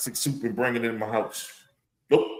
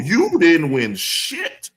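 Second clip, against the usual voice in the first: drawn-out, emphatic put-down; indignant telling-off; 4 semitones higher, much slower than usual. Acted. Fan tells off the absent team owner, indignant. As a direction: tell off the boss, hitting each word slowly.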